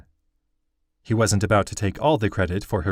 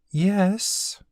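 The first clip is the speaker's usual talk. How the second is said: voiced high like a young girl, gentle; high girl's voice; 11 semitones higher than usual. Girl reassures the grieving craftsman, high and gentle. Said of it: "Okizi said slowly".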